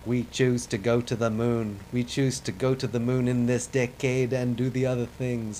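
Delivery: lightly voiced Kennedy, stress on "choose"; half-hearted stab at a presidential cadence; Kennedy speech. Gamer attempts the moon speech, mild mock Kennedy. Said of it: "I wish I could do a good accent for this guy".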